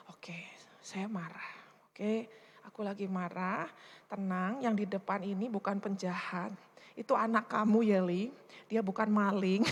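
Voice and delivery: hushed reminder to herself to stay calm; calm inner talk. Retold or imitated. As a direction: talk yourself down gently.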